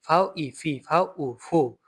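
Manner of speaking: teacher's syllable drill on f-sounding ফি, ফু. Shown as a demonstration. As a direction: spell and blend: ফাউ ই into ফি, ফাউ উ into ফু, with f. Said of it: "এটা ফয়ের মতো উচ্চারণ দেয়".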